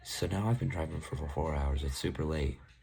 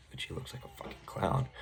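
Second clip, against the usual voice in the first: inner thought; 4 semitones higher, 4 dB quieter than usual. Retold or imitated. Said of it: "in my head".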